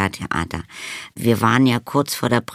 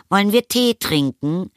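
higher-pitched motherly call; 10 semitones higher than usual. A narrator's reading. Mother invites son to tea, calling out. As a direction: call the question through the door. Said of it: "rief die Mutter".

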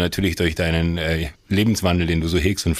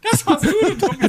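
squealing high through laughter; laughing so hard the voice jumps way up; laughing protest; slower than usual. Real, not acted. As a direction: protest while cracking up. Accused of shouting Idris, protests.

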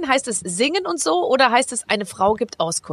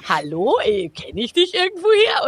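mock pickup line; 4 semitones higher than usual. Drunk disco guy approaching.

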